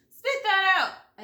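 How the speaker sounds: loud, slow commanding yell. A narrator's reading. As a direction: bark the order, slowly. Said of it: "as he yelled again".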